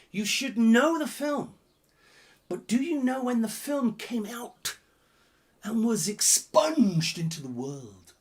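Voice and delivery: slow, dropping to a whisper; mock conspiratorial whisper; teasing hint fading to whisper. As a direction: lean in and hush the secret.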